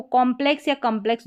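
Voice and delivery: कॉम्प्लेक्स first with "kom", then with "kum"; vary the first vowel of कॉम्प्लेक्स, "aw" then "uh"; two accepted pronunciations. Shown as a demonstration. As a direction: offer कॉम्प्लेक्स both ways, kom-plex and kum-plex. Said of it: "दोनों तरीके से pronounce कर सकते हैं".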